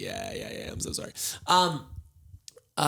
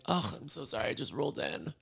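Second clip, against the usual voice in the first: acted groggy excuse; 7 dB quieter than usual. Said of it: "going out to dinner and being like".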